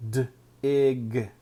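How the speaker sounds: "D-ig" split after the D; sounded out. Shown as a demonstration. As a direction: break "D-ig" into onset and rime. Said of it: "sounding out dig".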